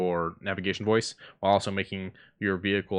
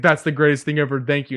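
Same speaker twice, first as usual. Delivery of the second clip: excited fan; 5 semitones higher, 8 dB louder than usual. Retold or imitated. Fan goes nuts at the voice.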